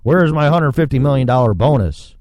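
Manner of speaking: mocking banker. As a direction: sneer like a smug executive. Mimicking greedy bankers.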